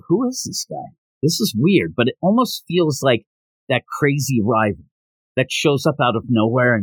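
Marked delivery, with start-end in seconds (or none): 0.1-1.9 puzzled surprise. Pretend. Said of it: "And you're looking like".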